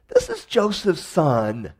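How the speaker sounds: slow, scornful whisper; slow whispered grumble among the people; grumbling whisper. Retold or imitated. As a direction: whisper it like a muttering crowd. Grumbling crowd quoted.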